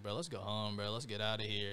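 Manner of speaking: retold deadpan; level, checked-out delivery; emotionless. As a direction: say it with no emotion whatsoever. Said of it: "no emotion whatsoever".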